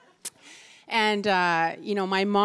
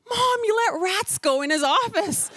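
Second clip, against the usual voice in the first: exasperated; 12 semitones higher, 5 dB louder than usual. Retold or imitated. Exasperated reply to mother.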